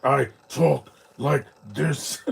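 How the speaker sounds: slow, drawn-out goofy character voice; mock cartoon villain voice. Streamer mocking how an actor could have voiced Spider-Verse, mock voice. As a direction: put on a ridiculous slow voice, word by word. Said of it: "talked like that in Spider-Verse".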